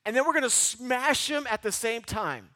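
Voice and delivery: a hint of an eager Gideon rallying his men; mock battle plan. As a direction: pitch the crazy plan with gusto. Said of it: "He's gonna say".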